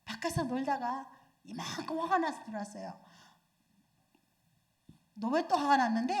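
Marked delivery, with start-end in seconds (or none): 5.1-6.2 irritated question. Retold or imitated. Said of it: "이렇게 묻는 것보다는".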